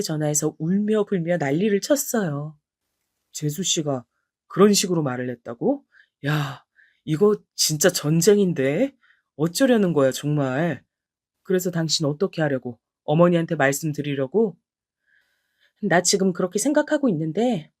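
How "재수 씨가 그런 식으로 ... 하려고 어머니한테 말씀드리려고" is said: lower, calmer husband reacting on the phone; husband's voice. Husband on the phone with his wife, lightly voiced, shocked. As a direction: play the husband, shocked, then concerned.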